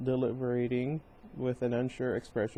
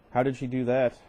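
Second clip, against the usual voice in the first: amused dad asking, a bit too entertained; chuckling at the news; 4 dB louder than usual. Shown as a demonstration. Father hears his daughter hurt herself, amused. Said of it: "ought to sound a bit less amused".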